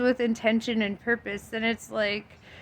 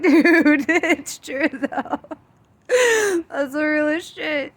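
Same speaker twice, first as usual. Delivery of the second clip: tearful; 6 semitones higher, 5 dB louder, slower than usual. Real, not acted. Moved to tears by the quote.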